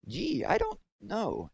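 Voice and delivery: put-on airhead girl. A narrator's reading. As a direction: drag it out like a girl with nothing in her head. Empty-headed Myra unsure.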